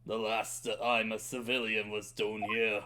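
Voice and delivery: lightly voiced gruff prison governor, loud; Armstrong voice. Governor scorning the visiting lawyer, loud gruff voice. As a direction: boom out a scornful jailer. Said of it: "my best Armstrong voice for him".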